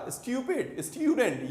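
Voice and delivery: Stupid and student with a clear 'styu'; correct 'yu' sound. Shown as a demonstration. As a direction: say styu-pid, styu-dent. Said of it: "यू को सही बोलना है". (Stupid, student में 'स्ट्यू' साफ़ बोलें)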